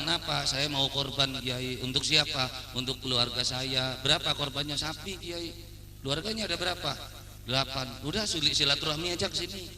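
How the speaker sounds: soft, unhurried village cleric exchange; old-time kiai dialogue. Acted. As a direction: play a patient old-school cleric and visitor, quietly. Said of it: "Kalau kiai zaman old".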